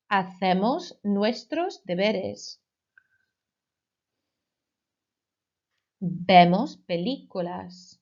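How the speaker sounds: slow, clear model for repeating; slow model phrase. Shown as a demonstration. Teacher slowly modelling we-form verbs for the class. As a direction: say it slowly so they can echo. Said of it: "please repeat after me".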